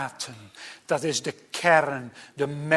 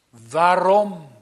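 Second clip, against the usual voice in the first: 'Waarom?' met meer nadruk uitgeroepen; uitroep van ontzetting; 5 dB louder than usual. Retold or imitated. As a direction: roep het ontzet uit. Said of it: "dat is een uitroep van ontzetting". (ontzette uitroep)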